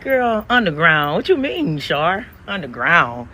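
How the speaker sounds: high, loud disbelief, drawn out; incredulous laugh. Retold or imitated. Mocking her friend's story with loud, high disbelief.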